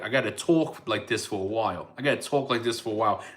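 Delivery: easing into a mild New York accent; a touch of New York in the vowels. Shown as a demonstration. Warming up to find the accent, light New York accent. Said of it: "New York's one of those accents".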